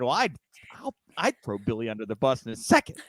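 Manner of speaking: playfully sly, low-pitched scheming; mock conniving. Host pretending to be Peyton pitching Vince, hammed-up conniving. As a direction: act out a schemer, low then popping up on the name. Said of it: "she was real conniving about it".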